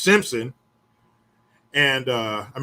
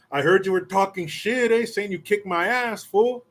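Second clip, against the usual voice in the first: taunting challenge; 6 semitones higher than usual. Retold or imitated. Rival confronts him, taunting.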